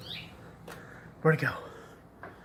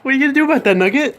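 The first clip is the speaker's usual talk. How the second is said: calling out loudly; 10 semitones higher, 8 dB louder, much faster than usual. Real, not acted. Calling out to the pet.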